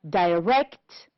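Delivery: "direct" stressed on RECT; stress on second syllable. Shown as a demonstration. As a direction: model "direct" with the weight on its last syllable. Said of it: "On the second syllable".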